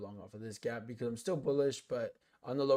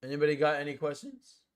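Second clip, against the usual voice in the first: voice crack; 3 semitones higher, 4 dB louder than usual. Real, not acted. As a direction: voice cracks upward on the question. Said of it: "you hear that voice crack?".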